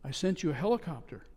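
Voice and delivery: patiently explain, quiet and kind; God's voice. Acted. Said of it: "God looked at him and said".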